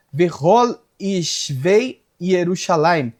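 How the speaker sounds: slow, drawn-out Hebrew reading; deliberate, stretched verse reading; scripture recitation. Real, not acted.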